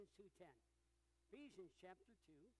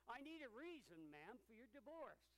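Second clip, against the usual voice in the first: raised, impatient voice of a fed-up judge; 3 semitones higher, 5 dB louder than usual. Retold or imitated. Judge pressing the woman in a joke, impatient and louder. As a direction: push the question louder, running out of patience. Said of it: "said the judge impatiently".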